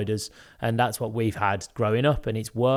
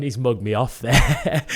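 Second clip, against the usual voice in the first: slow, laughing through the words; amused, chuckling quote; 4 dB louder, slower than usual. Retold or imitated. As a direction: laugh it out at being put in place. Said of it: "I remember laughing, going".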